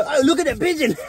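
laughing. Real, not acted. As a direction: laugh as you point it out. Laughing at the pigeon.

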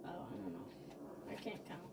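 very low, soft mumble; mock defeated mumble. Gamer acting out failed counting, defeated mumble. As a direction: drop right down and give up quietly.

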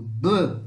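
du said on its own, with weight; teacher isolating du; stressed syllable alone. Shown as a demonstration. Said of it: "o du é mais forte".

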